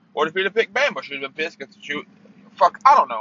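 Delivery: words tripping over each other in anger; angry stuttering. Real, not acted. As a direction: stumble and restart, pissed off. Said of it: "I'm stuttering 'cause I'm pissed".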